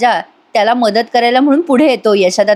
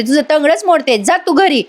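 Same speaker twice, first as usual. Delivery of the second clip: mild mock yell; 5 semitones higher than usual. Aunt ordering her daughter home, mock yelling. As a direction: send her off with acted annoyance. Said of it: "Sulu आत्या आता ओरडून म्हणते".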